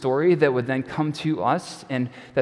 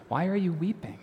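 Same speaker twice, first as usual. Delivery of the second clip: gentle question; 6 semitones higher, 5 dB quieter than usual. Acted. Angels ask weeping Mary.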